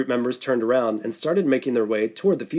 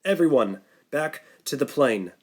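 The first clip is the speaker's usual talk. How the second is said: calm. Acted. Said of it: "calmly this time".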